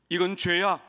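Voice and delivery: firm parental rebuke, mildly forceful; 단호한 부모 말투. Acted. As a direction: state it firmly as a parent correcting a child. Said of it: "그렇게 강하게 말해도요". (단호하게 꾸짖는 말투)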